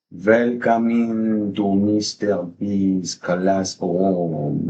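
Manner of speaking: drawn-out, slow French-tinged welcome; accidental French accent. Real, not acted. Streamer welcomes viewers to class, accidental French accent. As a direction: stretch it out with a slight French accent. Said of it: "I don't know why I sound French".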